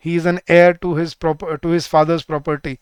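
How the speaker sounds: said slowly, word by word; slow dictation. Shown as a demonstration. Teacher reading example sentence slowly. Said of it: "तो क्या लगता है?".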